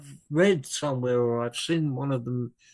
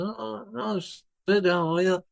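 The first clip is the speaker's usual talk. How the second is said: higher-pitched, startled hello; retold surprised greeting; 7 semitones higher than usual. Greeting the changed old bandmate across the table, surprised. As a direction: act out greeting a long-lost friend.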